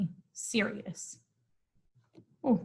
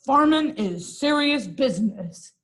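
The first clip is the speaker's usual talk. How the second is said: serious farmer; 2 semitones higher, 4 dB louder than usual. Acted. Stern farmer voices his motto.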